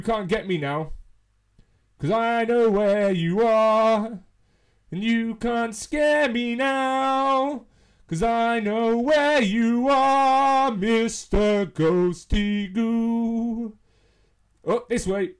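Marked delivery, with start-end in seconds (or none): 2.0-13.8 drawn-out teasing singsong; slow taunting singsong. Real, not acted. Player teasing the ghost, slow singsong taunt. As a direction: taunt the ghost slowly, playful.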